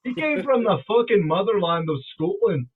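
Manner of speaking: forceful put-on Scottish accent. Speaker telling fans about friend's Scottish name, mock Scottish. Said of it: "we're talking about Scottish accent".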